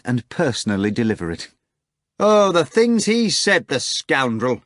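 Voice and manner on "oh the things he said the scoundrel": high slow indignant scream; screaming, laughing. Acted. Natasha telling Margarita, high and loud. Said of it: "Natasha screamed, laughing".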